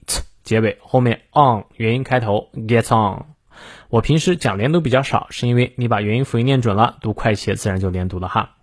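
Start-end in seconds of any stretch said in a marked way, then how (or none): 2.5-3.2 "gets on" run together as one word; linked reading. Shown as a demonstration. Teacher showing simple liaison, "gets on" smoothly linked. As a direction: link the ts of "gets" into "on". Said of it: "这里有个简单连读".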